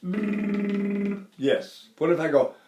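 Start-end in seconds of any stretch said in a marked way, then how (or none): 0.0-1.2 lip trill. Shown as a demonstration. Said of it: "Can I stop the air on a brr".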